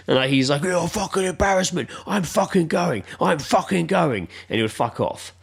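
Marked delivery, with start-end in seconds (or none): 0.6-4.3 higher-pitched, indignant mock rant; retold angry outburst. Fed-up boyfriend rowing with drunk girlfriend, mock anger. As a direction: imitate a fed-up boyfriend storming off.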